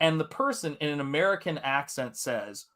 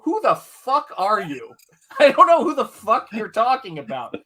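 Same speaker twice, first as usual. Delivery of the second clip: high, louder retold confrontation; mock angry outburst; 7 semitones higher, 5 dB louder than usual. Teen challenges a stranger on the phone, mock angry. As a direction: fire back indignantly, half laughing. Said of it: "I was ready to rock".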